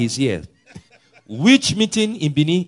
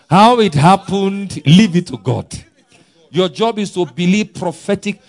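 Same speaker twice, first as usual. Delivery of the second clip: preaching emphasis; 6 semitones higher, 6 dB louder than usual. Real, not acted. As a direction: hammer the point home. Preaching at full force.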